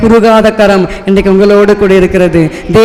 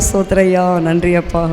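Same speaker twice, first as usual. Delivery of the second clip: soft, lowered prayer of thanks; retold quiet thanks; 4 semitones lower, 7 dB quieter than usual. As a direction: recall a hushed thank-you to God. Retells thanking God after the call. (மெல்லிய, தாழ்ந்த குரலில் நன்றி ஜெபம்)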